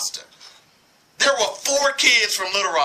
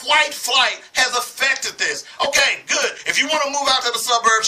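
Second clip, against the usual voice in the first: raised, slowed outburst of frustration; angry shout; 4 semitones higher than usual. Real, not acted. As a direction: shout it out, fed up, stretching the words. Angry radio rant on schools.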